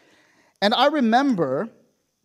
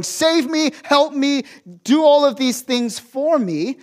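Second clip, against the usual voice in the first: higher-pitched acted plea to God; frantic pleading; 5 semitones higher, 3 dB louder than usual. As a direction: plead urgently, imitating desperate prayer. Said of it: "frantically going to God".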